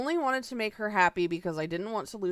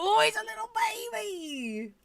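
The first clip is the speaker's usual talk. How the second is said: high, breathy whispered cooing; 14 semitones higher than usual. Real, not acted. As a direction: whisper it, melting over the pet. Cooing over the gecko.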